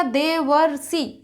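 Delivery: देवर्षि said slowly, leaning on the अर sound; teacher sounding out देवर्षि. Shown as a demonstration. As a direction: draw out देवर्षि so the अर is heard. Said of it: "उच्चारण करके पहचान लेंगे".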